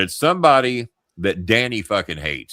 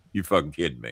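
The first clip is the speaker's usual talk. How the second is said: low, soft incredulous question; stunned disbelief; 5 semitones lower, 5 dB quieter, faster than usual. Retold or imitated. Mark just told he is being fired, quietly stunned. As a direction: ask it under the breath, stunned. Mark's first stunned reaction to firing.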